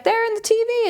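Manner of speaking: put-on high, urgent kid voice; imitating the son's discovery; mock son voice. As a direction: blurt it like an alarmed boy. Son's line retold.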